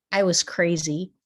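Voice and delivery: breathy whisper, no voice; whispered confession. Real, not acted. Telling viewers about her past, whispered. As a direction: whisper it like a secret.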